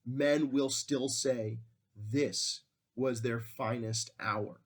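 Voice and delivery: measured, emphatic read of an oration; speech reading. Acted. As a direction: read it as a resolute wartime address, lightly declaimed. Reads out Churchill's wartime speech.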